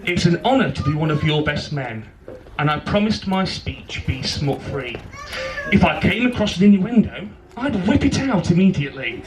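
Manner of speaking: measured rhyming wedding poem; poem recital. Real, not acted. Best man reads his poem to bride and groom, poem recital. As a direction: recite it line by line with pauses.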